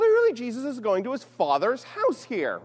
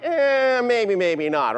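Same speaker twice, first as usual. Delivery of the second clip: skeptical doubter; much slower than usual. Acted. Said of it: "my reaction, I'll be flat out honest".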